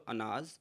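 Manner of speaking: अनाज said softly and clearly; अनाज with a clear opening अ; word demo. Shown as a demonstration. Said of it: "जैसे आप बोलो". (अनाज का स्पष्ट उच्चारण)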